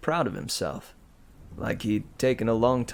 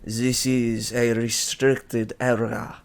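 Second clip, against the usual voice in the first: put-on French accent; 4 dB louder, slower than usual. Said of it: "He, he had a French accent".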